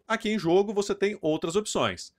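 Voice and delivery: ordinary talk, nothing marked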